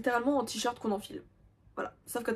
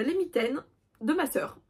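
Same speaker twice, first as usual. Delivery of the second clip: a hammed-up cry of despair, a little higher; mock wail; 4 semitones higher than usual. Youtubeuse confessing her sister's unfinished mittens, with a mock wail. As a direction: wail it as a pretend tragedy.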